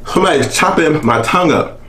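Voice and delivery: strained voice from throat burn. Real, not acted. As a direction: talk past a burning throat. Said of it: "the back of my throat is on fire".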